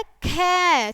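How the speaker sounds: "खे" drawn out on its ए vowel; vowel sounded out. Shown as a demonstration. Teacher letting children hear the vowel, drawn-out "खे". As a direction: stretch "खे" so the ए is heard. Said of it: "ए की आवाज़ निकल रही है".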